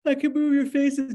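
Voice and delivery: words through a yawn. Real, not acted. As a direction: stretch it with a yawn. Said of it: "Now I'm yawning".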